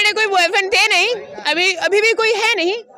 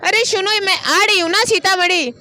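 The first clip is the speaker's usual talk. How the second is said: put-on coaxing girlfriend voice; man doing a woman's voice. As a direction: sweet-talk like a girlfriend asking for recharge. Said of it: "लड़की की voice निकालते हैं". (लड़की की आवाज़ में मीठी गुज़ारिश)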